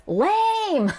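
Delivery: very high, drawn-out jeer; indignant exclamation. Acted. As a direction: throw it out with an exclamation point. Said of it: "with an exclamation point".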